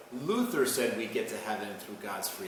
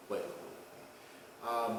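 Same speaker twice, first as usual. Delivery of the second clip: slow drawn-out emphasis; 6 dB quieter, much slower than usual. Real, not acted. Lecturer repeating quite liberal to students, slow and drawn out. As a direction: stretch out quite liberal slowly, a little softer.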